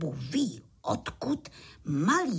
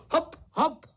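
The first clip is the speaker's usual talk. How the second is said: bouncy, higher "hop, hop" in time; rhythmic counting; 7 semitones higher, 4 dB louder than usual. A narrator's reading. Pytlík playing horse for the little crickets, rhythmic. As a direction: call the hops to a beat. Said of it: "říkal cvrčíčkům do taktu".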